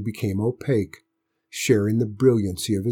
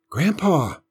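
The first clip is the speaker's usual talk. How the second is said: demanding; 7 semitones higher than usual. A narrator's reading. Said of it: "John Robert demanded".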